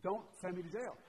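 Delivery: mildly acted begging; pleading. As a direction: plead lightly, as the servant in a retelling. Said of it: "begs and pleads".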